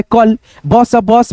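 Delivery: letters spaced out, then the word; teacher blending letters into a word; slow sounding out. Shown as a demonstration. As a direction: read it slowly letter by letter. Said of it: "teacher sounds out word".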